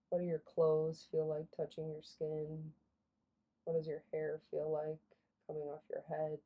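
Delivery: soft, unhurried prompts with long pauses; guided meditation. Real, not acted. Guide asks listeners to notice their body, guided meditation. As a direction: gently guide attention through the body.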